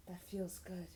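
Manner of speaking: mild softening of the voice; soft. A narrator's reading. He says it as his hair is combed, softly. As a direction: say it softly, like a quiet admission. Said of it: "he says softly".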